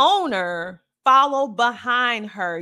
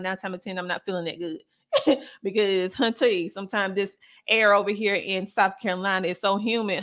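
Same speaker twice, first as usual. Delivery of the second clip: ordinary talk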